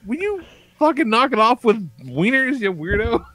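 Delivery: high-pitched comic scolding; retold exasperation. Dad telling son to stop, high exasperated voice. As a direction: plead as a fed-up parent.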